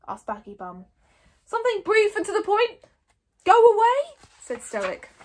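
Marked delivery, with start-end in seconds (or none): 1.4-4.2 high, loud, decisive call; shouted instruction. A narrator's reading. Stoic telling the tribe what to yell, shouting. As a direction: give the battle cry firmly.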